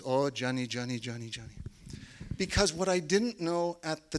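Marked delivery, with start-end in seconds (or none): 0.0-1.6 fond smiling. Retold or imitated. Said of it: "Magda just smiles and she says".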